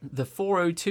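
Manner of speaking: measured, lilting announcer impression; unhurried announcer. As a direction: announce it at a leisurely pace. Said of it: "it's just like that speed".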